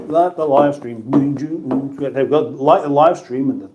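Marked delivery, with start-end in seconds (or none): 0.1-2.0 very slow, stretched-out words; drawn-out plea. Acted. Streamer nagging viewers to like, slowed right down. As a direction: drag each word out like a chant.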